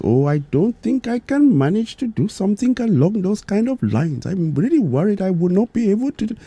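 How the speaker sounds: high-pitched imitation Indian accent. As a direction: play a worried joke character with an Indian accent. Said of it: "I'll try my best to do the Indian accent".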